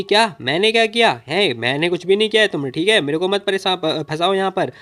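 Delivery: put-on indignant girl yelling back; shouting. Girl yells at aunt she did nothing. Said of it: "चिल्ला चिल्ला के बात कर रही होती है".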